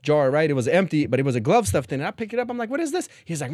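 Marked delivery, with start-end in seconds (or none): 2.7-3.1 high, startled question; mock shocked question. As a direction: ask it like you just found something gross. Finding the fifi in cell.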